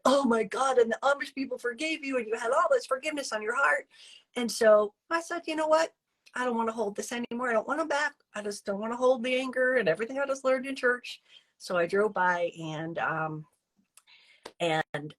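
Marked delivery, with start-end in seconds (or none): 0.1-3.9 high, fast, excited retelling; gushing. Retold or imitated. Woman moved by a forgiveness sermon, gushing fast. 5.5-11.2 high, fast, earnest decision; resolved. Retold or imitated. Woman deciding to drop her anger, high and fast.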